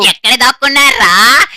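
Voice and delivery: loud calling with a rising end. Acted. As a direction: call out across the map to the hiders. Killer calling out to hiders.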